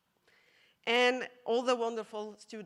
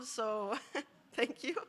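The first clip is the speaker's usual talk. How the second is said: tearful laugh; slower than usual. Real, not acted. Emotional thanks at award speech.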